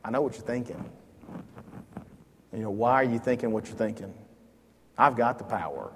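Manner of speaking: calmly. Retold or imitated. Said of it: "I can just kinda see him saying it calmly".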